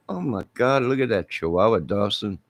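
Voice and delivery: comic gawking neighbors; mock amazed neighbor. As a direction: gasp at Chihuahua Dawson in the snow. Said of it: "Your neighbors would have been".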